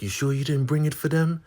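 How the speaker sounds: high put-on voice; warning Marva. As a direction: caution sternly. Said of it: "She's like".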